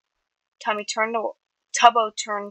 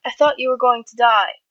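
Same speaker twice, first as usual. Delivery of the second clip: loud, raised-pitch outburst; shouted; 4 semitones higher, 7 dB louder than usual. A narrator's reading. Tubbo to the friend he feared lost, shouting. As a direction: cry it out at full voice. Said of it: "Tubbo shouted".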